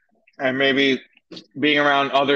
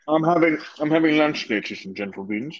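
chewing while talking; 2 semitones higher than usual. Real, not acted. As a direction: mouth full of lunch. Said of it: "crunch or munching over there".

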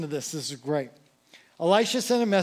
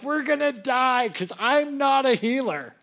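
mock panic; 6 semitones higher than usual. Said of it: "the king freaks out".

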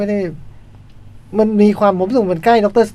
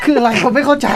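laughing; 6 semitones higher than usual. Real, not acted. Confused, laughing at friend.

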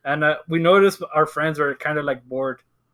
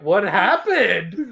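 slow, drawn-out mock question; pretending; much slower than usual. Friend reacting to news of the loss, pretending. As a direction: stretch it out in put-on puzzlement.

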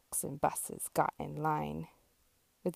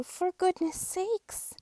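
higher truck voice, firm; Little Blue scolding; 5 semitones higher, 4 dB louder than usual. Acted. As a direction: gently scold the traffic jam.

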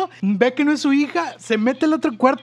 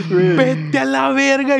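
surprised; 3 semitones higher, much slower than usual. Retold or imitated. Reacting to Alfie's call.

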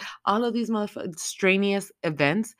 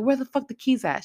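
yelled demand; 8 semitones higher than usual. Retold or imitated. Maxine at gunpoint demanding the keys, high yell. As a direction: bark the demand at her.

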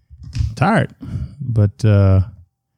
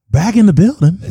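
higher, louder hype shout-out; hype announcement; 9 semitones higher, 3 dB louder than usual. Pretend. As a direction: announce the entrance like a hype man.

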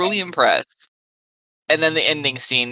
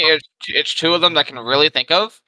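chewing while talking. Real, not acted. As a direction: mouth full of food. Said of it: "I'm also eating at the same time".

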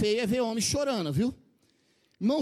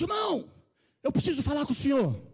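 loud, raised-pitch call across a distance; 4 semitones higher, 3 dB louder than usual. Retold or imitated. Young man hailing the preacher as he pulls in, calling out. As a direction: hail someone urgently from afar.

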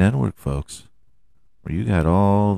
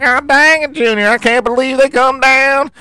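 much higher, squeaky excited booth voice; mock commentator; 13 semitones higher than usual. Host mocking announcer Burton gushing to Junior, squeaky and high. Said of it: "He's like".

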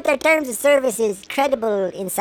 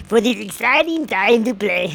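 cop voice; 3 dB louder than usual. Pretend. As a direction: drag it out like a folksy officer. Cop answers the bear.

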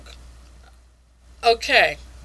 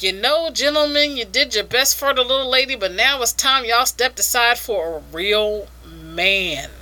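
mock Southern gentleman, slowing on the ending; hammed-up Southern weevil swagger; Southern accent. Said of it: "I guess he's a Southern Weevil".

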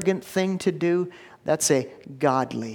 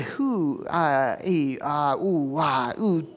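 angry sputtering; slower than usual. Acted. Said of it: "he was livid".

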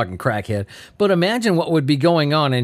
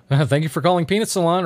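receptionist imitation. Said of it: "answered the phone like nothing was going on".

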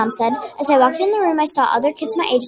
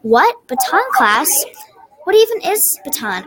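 puzzled, pitch climbing on the last question; 3 semitones higher than usual. Acted. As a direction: ask it in mild disbelief. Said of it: "in a questionable voice".

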